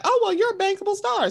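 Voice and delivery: high, sing-song fake praise; lightly mock the gushing producer; a touch of sarcastic flattery; mock flattering voice. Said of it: "and it's like".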